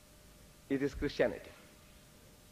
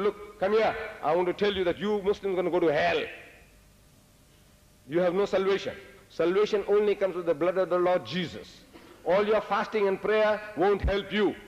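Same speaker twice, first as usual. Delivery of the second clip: forceful, direct declaration; emphatic hellfire warning, plainly put; blunt straight talk; 3 semitones higher than usual. Acted. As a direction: tell them straight, firmly and without softening. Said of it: "Talk straight. He said".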